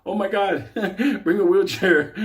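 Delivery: sarcastic imitation of fake alarm; mock concern. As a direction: fake worried voice. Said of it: "start acting all concerned".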